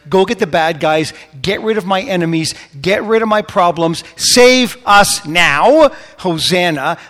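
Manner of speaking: rally like an expectant crowd, peaking on the last words; escalating impassioned plea; crowd's urgent demand. Acted.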